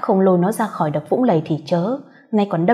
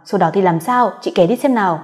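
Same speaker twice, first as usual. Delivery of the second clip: eager fluster; 5 dB louder than usual. Acted. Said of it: "nó lại rối rít".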